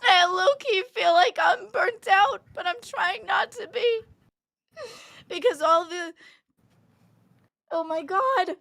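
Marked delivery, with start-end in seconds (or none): 0.0-4.0 real crying, trying to stay composed; tearful admission. Real, not acted. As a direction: hold back tears while admitting it. Streamer breaking down on stream.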